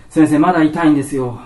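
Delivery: patient loudly whining that it still hurts; complaining to doctor. Retold or imitated. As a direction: play up the pain, loud and pleading.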